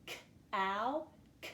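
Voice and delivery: "K-ow" split, then a lone "K" sound. Shown as a demonstration. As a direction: isolate the short k in "K-ow" and "K". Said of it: "begins with the k sound".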